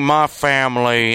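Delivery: slow mock Southern drawl; drawn-out fake Southern twang; Southern accent. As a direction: imitate a put-on Southern accent. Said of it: "in the Southern accent".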